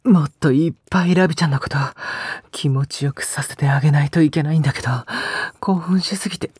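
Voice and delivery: fast, urgent, panting delivery; overexcited, losing composure. Acted. Lover apologizing to partner for losing control, overexcited. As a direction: rush it as if barely holding on. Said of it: "興奮しすぎて 余裕なくて".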